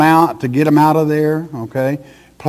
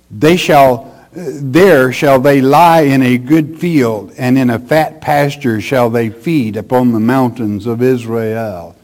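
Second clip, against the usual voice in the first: loud, ringing proclamation of the verse; scripture reading; 3 dB louder than usual. Acted. Preacher reading God's promise to gather the flock, declamatory. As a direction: declaim it forcefully, easing at the close.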